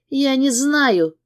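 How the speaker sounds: high, slow tearful wail; sobbing. A narrator's reading. Sobbing mother answering her husband. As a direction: cry the words out. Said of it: "рыдает она".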